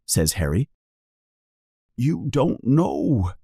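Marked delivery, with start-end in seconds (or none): 2.0-3.3 sadly. Acted. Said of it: "says Hagrid sadly".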